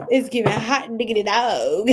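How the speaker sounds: playful Southern twang; Southern accent. Acted. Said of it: "Do they have a Southern accent?".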